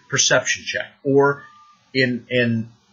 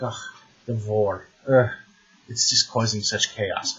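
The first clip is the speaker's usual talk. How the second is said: put-on Russian-accented demon grumbling; lightly voiced Russian-accented demon. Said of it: "I did my Russian accent for the demon".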